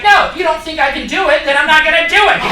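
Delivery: put-on a childish deity sulking at sick kids; mock petty God. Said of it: "and he's like".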